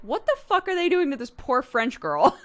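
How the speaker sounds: high, loud, laughing outrage; retold disbelief. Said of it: "and I was like".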